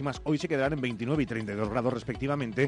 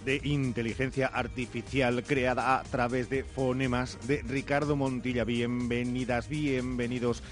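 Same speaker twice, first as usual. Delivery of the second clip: bright synthetic announcer voice; chipper text to speech voice. Pretend. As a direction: read it like an AI voice clone. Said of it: "les saluda la voz de inteligencia artificial".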